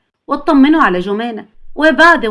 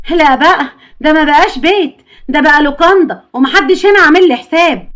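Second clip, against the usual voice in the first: indignant complaint; 3 semitones higher, 6 dB louder than usual. Acted. Mother complains nobody here cares about her, loud indignant scolding. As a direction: let the whole house hear your outrage.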